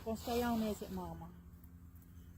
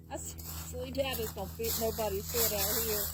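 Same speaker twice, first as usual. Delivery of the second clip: laughing through words. Real, not acted. Laughing over tiny hat.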